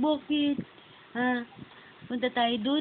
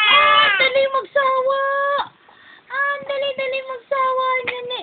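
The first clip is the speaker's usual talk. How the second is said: high-pitched, loud coaxing; 12 semitones higher, 6 dB louder than usual. Real, not acted. Mother coaxing her fussing baby, high and eager.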